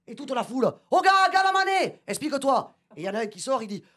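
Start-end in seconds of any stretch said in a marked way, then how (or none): 0.9-2.7 high mock crowd echo; hammed-up crowd call. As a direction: echo it as the tribe. The crowd repeats.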